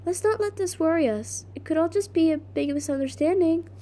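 lightly voiced character read; Kara. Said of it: "That's Kara".

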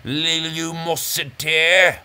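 "lumosity" dragged out syllable by syllable; slow "lumosity", each syllable given its own beat; extra syllables. Shown as a demonstration. Host showing padded syllables, "lumosity" slowly stretched out. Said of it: "packing, mm, extra syllables in cases".

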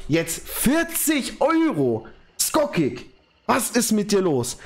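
high, slow, near-tearful; almost crying from joy; overwhelmed. Real, not acted. Überwältigt von Vierzig-Euro-Spende. (den Tränen nahe vor Freude)

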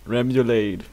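"remoulade" in an English accent, rem-yu-LAID; anglicised English-accent "remoulade". Shown as a demonstration. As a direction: say "remoulade" as an English speaker would. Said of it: "with an English accent".

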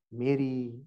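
Mary said low and soft, lingering; tender call. Shown as a demonstration. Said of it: "He used to call Mary in a particular tone".

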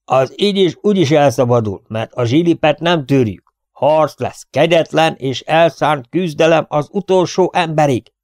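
rally them with a loud shout. A narrator's reading. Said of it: "kiáltotta közbe Ellen". (harcos, hangos kiáltás)

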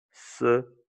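"serenity" split as suh... REH... nuh... tee; syllable-by-syllable demo. Shown as a demonstration. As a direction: break "serenity" apart with pauses. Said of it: "Et donc, tu dis".

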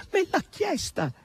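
very high, teasing cry; teasing high shout; gleeful shout. A narrator's reading. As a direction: crow it triumphantly. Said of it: "gridò Natascia".

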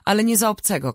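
defiant cry. A narrator's reading. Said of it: "krzyknęła". (podniesiony głos, okrzyk sprzeciwu)

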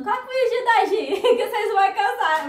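high, loud laughing aside. Real, not acted. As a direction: joke at your own expense, laughing. Joking plug for own videos.

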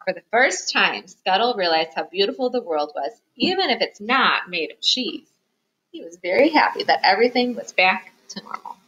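lively picture-book reading, stressing key words; story narration for children. A narrator's reading. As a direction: read it aloud to little listeners. Reads picture book aloud.

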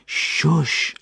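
high, urgent shush; hushing. A narrator's reading. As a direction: hush a crying child. Boy hushes the wailing girl.

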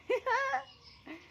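short high-pitched laugh. Real, not acted. Gardener amused at her own reminder, laughing. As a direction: let out a quick high giggle.

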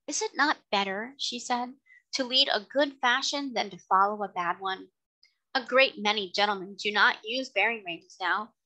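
a refined lady coaxing the carter; kind lady. Acted. Lady argues good fashion.

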